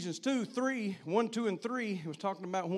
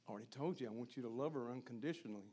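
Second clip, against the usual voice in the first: voice of God answering; 7 semitones lower, 11 dB quieter, faster than usual. Retold or imitated. God answers the pleading father.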